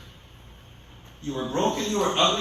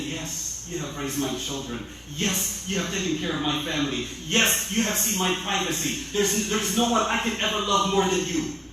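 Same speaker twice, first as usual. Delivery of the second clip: gentle comforting; 3 semitones lower than usual. Retold or imitated. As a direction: soothe her gently, voice dropped low. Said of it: "become that gentle, fragile person comforting her".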